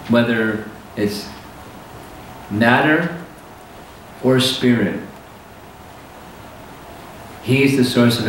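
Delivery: slow delivery with long pauses between phrases; measured, unhurried explanation, pausing often; slow, deliberate teaching. Real, not acted. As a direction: let each phrase sink in. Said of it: "I'm speaking slowly".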